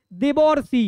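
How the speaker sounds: দেবর্ষি with a clearly sounded "or" before the final "shi"; careful pronunciation. Shown as a demonstration. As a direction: model দেবর্ষি for a class, bringing out the "or". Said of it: "উচ্চারণটা খেয়াল করো তো".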